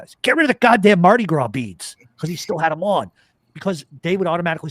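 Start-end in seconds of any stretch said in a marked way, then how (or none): 0.2-2.0 higher, louder, urgent command; urgent retold order. Telling Tom to lose the beads before cops notice, urgent order. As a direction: act out a frantic order to a buddy.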